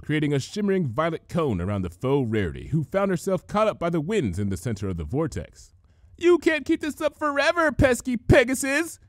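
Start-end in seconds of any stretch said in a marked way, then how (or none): 6.2-9.0 high taunt that slows at the end; faltering taunt. A narrator's reading. Changeling taunting Dash, voice faltering. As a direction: jeer with failing nerve. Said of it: "taunted the imposter, voice faltering".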